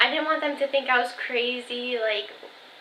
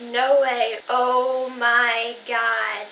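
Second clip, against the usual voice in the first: loud, drawn-out retold disbelief; mock astonishment, louder and slow; amazed reaction; 5 dB louder, much slower than usual. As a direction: stretch it out, imitating mom's amazement. Reads out mom's amazed text.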